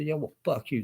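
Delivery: lightly acted employee giving it right back; mock angry worker. Acted quarrel, worker answers back.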